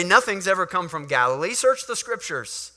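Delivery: haughty Pharisee sneer; lightly voiced scornful priest; mocking scorn. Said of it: "They say".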